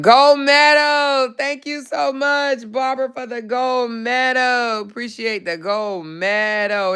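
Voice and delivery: high, slow, gushing over the gift; gushing thanks. Real, not acted. To Barbara, thanking her for the gold medal, gushing.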